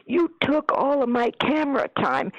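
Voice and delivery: high-pitched mimicked complaint; mock quarrel. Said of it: "they got in a big fight".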